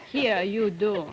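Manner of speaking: usual speaking voice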